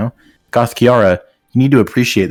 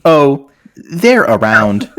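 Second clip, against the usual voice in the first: very slow, higher evasive drawl; a lightly voiced coy friend; coy Vitani; 5 semitones higher, 3 dB louder, much slower than usual. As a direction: stall her, teasing and vague.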